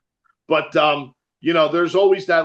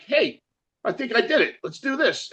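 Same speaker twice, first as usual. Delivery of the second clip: higher, excited self-quote; 8 semitones higher than usual. Retold or imitated. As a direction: relive the moment it clicked. Retelling a breakthrough.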